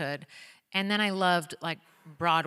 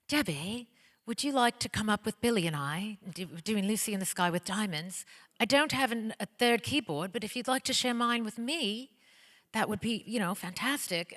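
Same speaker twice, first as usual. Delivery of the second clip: put-on a lightly done, slightly raised British accent for a rock star; a hint of a posh British accent, a touch higher; bad British accent of a singer; 3 semitones higher than usual. Mimicking a singer inviting her onstage, in a mild British accent. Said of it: "I'm gonna do a really bad British accent".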